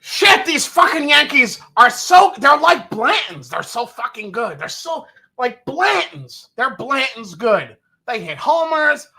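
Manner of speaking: high-pitched, hammed-up fanboy; gushing tater fan. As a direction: rave like a superfan at the ballpark. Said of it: "impression of a tater at Yankee Stadium".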